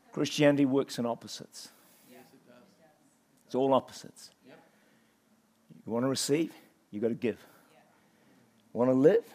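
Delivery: low, subdued preaching in short phrases; soft and low, reining yourself in; calmed down. Real, not acted. Preacher explaining opposites to the church, calmed right down. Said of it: "Just calm down".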